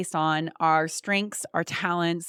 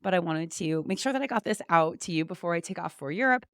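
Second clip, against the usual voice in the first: rough, hoarse voice from a cold. Real, not acted. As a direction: talk through a frog in the throat. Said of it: "Please excuse my rough voice here".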